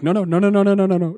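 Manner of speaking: rapid high string of hushed no's; frantic shushing. Retold or imitated. Friend hushing the hothead before he starts a fight, frantic. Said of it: "be like".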